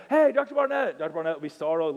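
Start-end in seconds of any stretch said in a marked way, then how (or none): 0.1-1.0 higher and louder shout across the cafeteria; calling out. Retold or imitated. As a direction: hail him from the booth. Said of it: "and he'd say".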